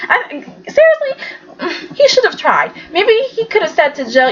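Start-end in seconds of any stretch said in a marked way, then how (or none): 0.1-2.7 emphatic. Real, not acted. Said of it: "Actually, I think he should have tried".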